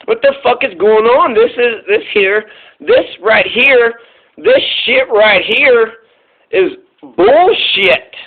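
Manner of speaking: slow, drawn-out exasperated rant; fed-up public. Retold or imitated. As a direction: drag every word out like you're sick of it. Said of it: "the American people just keep saying".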